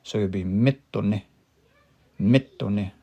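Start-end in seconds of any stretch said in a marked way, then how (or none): 0.5-1.2 mitone stressed on its first syllable, MI-to-ne; stress on third-last syllable. Shown as a demonstration. Teacher showing learners the stress, first syllable stressed. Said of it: "the stress will be on this one". 2.2-2.9 Mitone with a slightly raised MI, then falling; stress on third-last syllable. Shown as a demonstration. Teacher demonstrating stress to learners, first syllable raised. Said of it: "a raised pitch in my voice".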